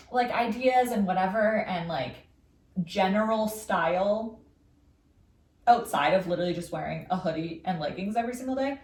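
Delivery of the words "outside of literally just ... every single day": hiccups. Real, not acted. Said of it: "I'm, like, hiccuping so much".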